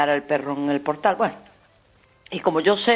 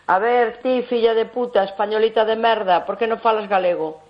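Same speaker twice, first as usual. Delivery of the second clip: retold aggressive taunt; 5 semitones higher than usual. Nationalists insulting the caller at the office, mock angry jeer. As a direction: spit it like a hostile activist, hammed-up. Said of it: "Así".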